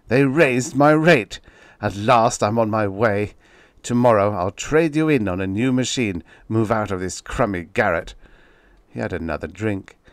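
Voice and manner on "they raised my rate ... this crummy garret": louder, gloating brag; sneering boast. Acted. Writer sneering at the typewriter over his cheque. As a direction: crow about the raise with contempt. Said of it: "he sneered".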